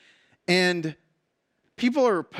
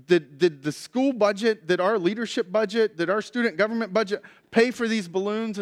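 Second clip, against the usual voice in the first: irritated demand; 3 semitones higher than usual. Retold or imitated. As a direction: retell his annoyed question, a little pressing. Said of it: "kind of angry at them".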